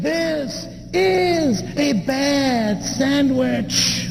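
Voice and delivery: slow, drawn-out grumble of a fussy passenger; complaining passenger. Retold or imitated. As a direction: drag each word out in disgust. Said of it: "He said".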